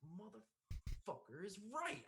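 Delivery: high, drawn-out mock fury; retold exasperation. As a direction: reenact slow-dawning, pissed-off realization. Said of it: "really pissed off".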